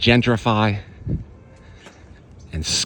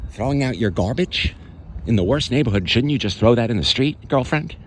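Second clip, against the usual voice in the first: sarcastic mock question with an edge; 2 semitones higher than usual. Real, not acted. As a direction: needle them with mock-helpful questioning. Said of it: "I'm being sarcastic because I'm angry".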